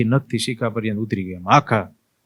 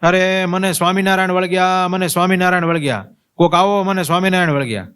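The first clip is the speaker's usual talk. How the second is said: retold panicked shout; 7 semitones higher than usual. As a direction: shout it high as a frightened old woman. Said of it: "જોર જોરથી બૂમો પાડવા માંડ્યા".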